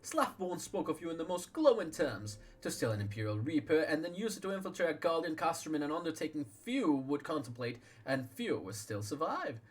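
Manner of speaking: admiring courtly speaker. Acted. Welcoming the famed hero, lightly voiced gracious courtier. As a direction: flatter him with polished courtesy.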